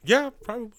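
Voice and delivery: high, eager Hollywood agent pitch; schmoozy hollywood agent. Acted. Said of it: "I really sound like a Hollywood agent guy".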